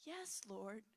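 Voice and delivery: hushed, whispered yes; whispered surrender. Retold or imitated. Praying woman whispering her yes to God. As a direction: breathe it out in surrender.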